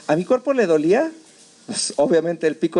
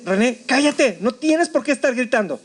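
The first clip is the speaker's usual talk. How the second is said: higher-pitched brisk reprimand; scolding himself; 5 semitones higher than usual. Retold or imitated. Survivor tells himself to stop screaming, scolding. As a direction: order yourself to hush. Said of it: "lo primero que me dije a mí mismo".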